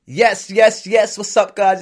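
high, loud hype-up yeses; hyped cheer. Real, not acted. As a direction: pump up the crowd.

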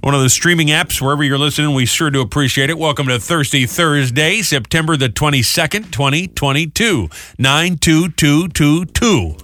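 upbeat station ID read; morning DJ reading the station ID; radio host read. Acted. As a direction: sell the station and date like a DJ.

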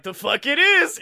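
high, loud mock retort; Foot Clan thugs retorting, mock yell; mock shout. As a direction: snap it back as a shout. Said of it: "the Foot Clan is like".

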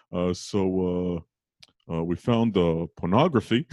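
lightly voiced Brooklyn cop accent; halting Brooklyn dad, feeling his way to an awkward subject; Brooklyn detective dad.

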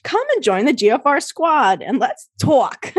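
put-on light Jersey accent on let's talk. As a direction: say it with a New Jersey twang. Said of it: "That's my Jersey accent".

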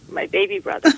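put-on high old lady voice. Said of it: "the old Jewish lady would say".

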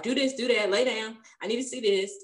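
imitating a brusque nurse's orders; mildly rough, bossy retold commands. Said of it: "she was just kinda rough".

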